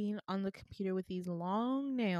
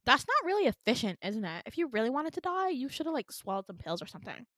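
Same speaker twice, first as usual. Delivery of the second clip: offhand judgment, pitched up then tailing off; callous receptionist; 3 semitones higher, faster than usual. Retold or imitated. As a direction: imitate a tactless clerk musing. Receptionist callously critiquing, acted out.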